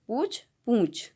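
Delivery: पूछ plain, then पूँछ with a nasalized uu, a bit slow; plain then nasal. Shown as a demonstration. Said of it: "दोनों का उच्चारण अलग है". (पूछ सादा, पूँछ में ऊ नाक से)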